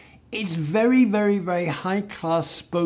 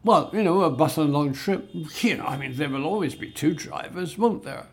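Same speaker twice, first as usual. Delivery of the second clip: emphatic spoken English; faster than usual. Shown as a demonstration. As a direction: say it conversationally, quickening through the fillers. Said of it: "We might emphasize something like".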